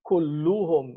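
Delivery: Kulluhum with u endings, the right form; correct form Kulluhum. Shown as a demonstration. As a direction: say Kulluhum clearly, u vowels. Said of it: "He said".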